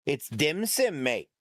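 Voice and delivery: light Aussie twang on dim sum; Australian accent. Retold or imitated. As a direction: say it like a casual Aussie bloke. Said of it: "applied the Australian accent to dim sum".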